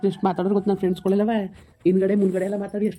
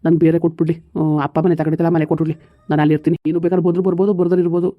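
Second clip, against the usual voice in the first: louder, dead-set refusal; loud defiant declaration; 4 dB louder than usual. Acted. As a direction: plant your feet and refuse. Son loudly refuses to stay.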